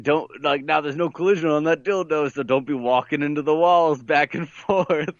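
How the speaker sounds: lightly voiced Southern cop; hillbilly cop. Prison cop warning the player, lightly imitated hillbilly. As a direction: retell the order with a touch of hillbilly twang. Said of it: "a hillbilly cop voice comes on".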